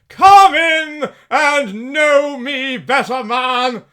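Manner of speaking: big, slow, booming giant; jolly giant voice. Acted. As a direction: boom it out like a jolly spirit. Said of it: "there sat a jolly giant".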